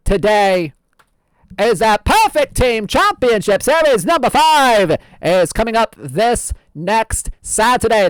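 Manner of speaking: lightly voiced old-time radio host; old-fashioned announcer voice; old-timey voice. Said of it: "we're gonna keep going".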